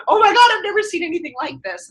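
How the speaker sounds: high mock-astonished gasp; amazed onlooker. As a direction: play the stunned bystander. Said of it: "The onlooker is like".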